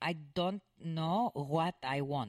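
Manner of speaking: put-on Greek or Turkish accent. Showing how the migrant spoke English: imitating a Mediterranean accent. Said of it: "with an accent that would be native of someone, uh, from the Mediterranean".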